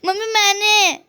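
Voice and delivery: whiny crying "mummy मैंने", imitating the daughter; a child's tearful whine, retold; mock crying. Mother imitating the daughter's crying complaint, mock tearful. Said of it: "फिर".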